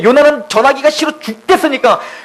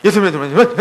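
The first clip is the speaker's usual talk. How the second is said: lower, mumbled mock proclamation; half-hearted preaching; 4 semitones lower, faster than usual. Jonah preaching to Nineveh against his will, half-hearted. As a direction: imitate reluctant preaching, lightly mumbled. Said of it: "이렇게 전하잖아요".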